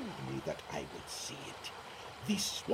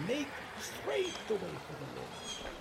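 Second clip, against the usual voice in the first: distant preaching; 3 semitones higher, 4 dB quieter than usual. Acted. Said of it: "coming to you from about thirty feet away".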